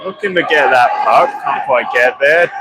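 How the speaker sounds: steady live hockey commentary; play-by-play. Acted. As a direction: call the game as it unfolds.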